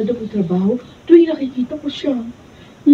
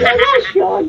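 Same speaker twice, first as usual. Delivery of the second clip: laughing mimic; 6 semitones higher, slower than usual. Daughter laughing while echoing mother's shout. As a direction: echo relasyon through a laugh.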